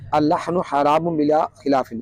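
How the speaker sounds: slow, measured Arabic recitation. Shown as a demonstration. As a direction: recite it slowly, drawing out the long vowels. Reciting an Arabic legal quotation. (ٹھہر ٹھہر کر عربی قرأت)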